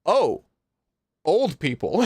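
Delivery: lightly acted double take; startled recognition. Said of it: "when he sees Kiulana".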